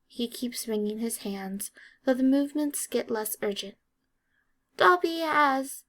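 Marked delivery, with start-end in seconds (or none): 4.8-5.8 high, slow faltering elf voice; nervous elf pause; hesitant elf. A narrator's reading. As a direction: falter mid-sentence as the elf.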